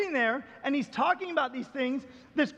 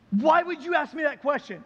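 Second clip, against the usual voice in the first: louder, startled challenge; shocked; 5 dB louder than usual. Retold or imitated. Man to pastor after the bullet question, shocked. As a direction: imitate a man taken aback, demanding why. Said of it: "he gets all shocked".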